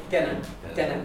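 dinne with a plain single n as written; single n, Connemara. Shown as a demonstration. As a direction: say dinne with one n, Connemara style. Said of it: "a single end, the way it's written".

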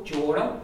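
jora with a closed O, southern style. Shown as a demonstration. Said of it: "down south the closed O".

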